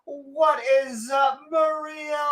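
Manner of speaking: high, excited livestream greeting; excited shout-out. Retold or imitated. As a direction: gush over every viewer.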